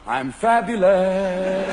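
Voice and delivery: slow, self-satisfied; smug runner. Acted. Runner early in the race, slow and smug. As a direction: savor it, slowly.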